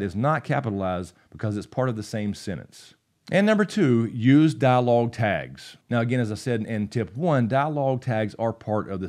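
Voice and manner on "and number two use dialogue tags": emphatic announcement. Real, not acted. Host announcing tip two to viewers, loud and slow. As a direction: punch out the heading, slow and loud. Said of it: "announcing a numbered tip".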